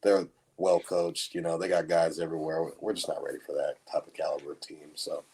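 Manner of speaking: dry sarcastic downplaying. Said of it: "Javon is a thousand percent being sarcastic".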